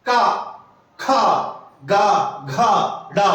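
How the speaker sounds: का खा गा घा डा voiced slowly from the throat; throat sounds demo. Shown as a demonstration. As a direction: say का खा गा घा डा one by one, from the throat. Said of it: "बोलिए".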